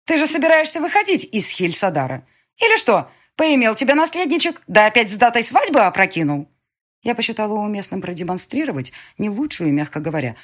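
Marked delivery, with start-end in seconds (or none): 0.0-6.5 much higher, loud jeering attack; shrill scolding. Acted. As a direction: needle her with shrill scorn. Dema keeps attacking stepdaughter.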